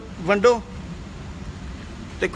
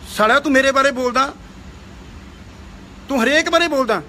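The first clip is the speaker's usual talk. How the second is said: angry berating; 3 semitones higher than usual. Real, not acted. Berating rival.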